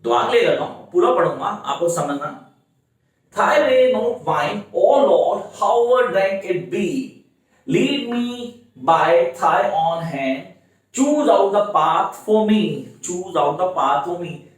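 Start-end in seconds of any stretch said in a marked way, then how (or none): 3.4-14.5 slow, measured verse reading; deliberate classroom recitation; poem reading. Shown as a demonstration. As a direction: read the verse out slowly, phrase by phrase. Reads out the poem lines.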